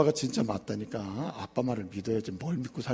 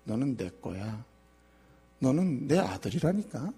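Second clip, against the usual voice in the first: tender Lord; 3 semitones higher, slower than usual. Acted. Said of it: "우리 보고 말씀하십니다".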